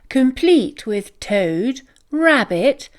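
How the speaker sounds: plain reading voice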